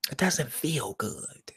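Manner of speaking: whispered, slow and hushed; a soft whispered echo of the line. Shown as a demonstration. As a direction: breathe the words out with no voice. Repeats the quote softly.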